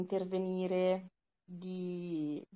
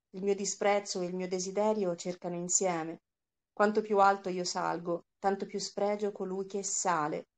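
steady, measured narration of a philosophical tale; story reading. Acted. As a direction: read it to the class, giving each line weight. Teacher reads the story aloud. (lettura narrativa misurata per la classe)

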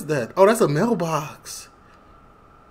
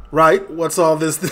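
mock British accent; 7 dB louder than usual. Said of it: "British people be like".

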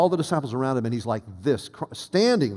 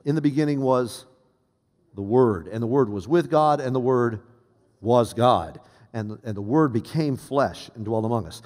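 scripture recitation. Acted. Recites the opening of John.

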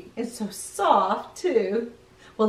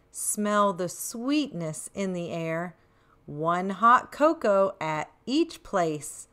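put-on reading to children; 3 semitones lower, slower than usual. A narrator's reading. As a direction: read the verse gently to little ones. Reads rhyming verse.

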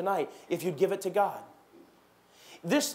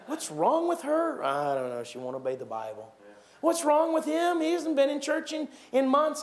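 gossiping churchgoers; 5 semitones higher than usual. Retold or imitated. Churchgoers gossiping about a wayward member, mock voices. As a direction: play two neighbours whispering about someone. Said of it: "Here it is".

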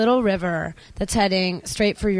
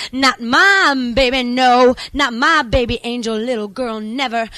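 protective, pleading outcry; anguished protest; 3 semitones higher, 6 dB louder than usual. Acted. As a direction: cry out in protest, then ease off. Poem, mother's anguished protest voiced.

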